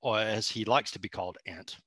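courtly put-on Southern gentleman; genteel, hammed-up Southern accent. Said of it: "homebrew walkthrough in that accent".

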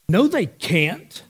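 slow, flatly certain no; indignant. Retold or imitated. Little daughter flatly denies her siblings hit harder, indignant. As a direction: dismiss it as obvious, drawn out. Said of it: "I mean, indignant".

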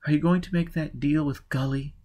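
a touch of weariness; weary. A narrator's reading. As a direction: ask it with tired resignation. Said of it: "asked in a weary voice".

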